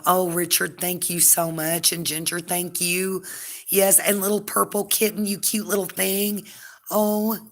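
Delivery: high, slow, tender gushing; gushing thanks. Real, not acted. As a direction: coo your thanks in a high, drawn-out voice. Gushing thanks to viewers by name.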